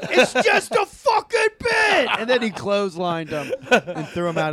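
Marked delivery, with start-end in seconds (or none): 0.1-2.1 high, laughing mock line; laughing quote. Retelling the fight story, laughing high. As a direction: blurt it out through laughter.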